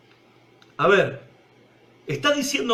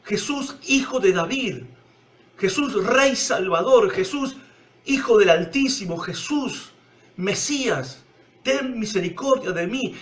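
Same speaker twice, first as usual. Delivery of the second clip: desperate cry. Retold or imitated. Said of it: "Bartimeo estaba gritando".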